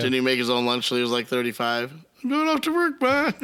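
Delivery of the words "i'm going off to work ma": put-on high, childish announcement to mom; high mock grown son. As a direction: call it out like a mama's boy. Imitating grown man living at home.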